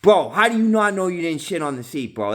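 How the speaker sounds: a hint of a squeaky outraged friend; lightly voiced indignant yell; outraged scolding. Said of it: "yelling at this kid".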